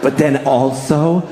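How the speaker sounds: low, slow, self-satisfied mock voice; Matt Damon. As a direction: drawl it out, hugely pleased with yourself. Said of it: "he basically sat down".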